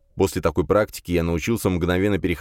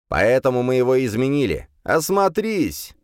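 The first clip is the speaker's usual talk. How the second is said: demon voice; 6 semitones higher than usual. Acted. Demon Legion speaks.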